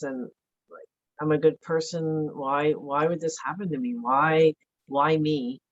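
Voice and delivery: an aggrieved lament; victim mode voice. Retold or imitated. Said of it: "What else was happening?".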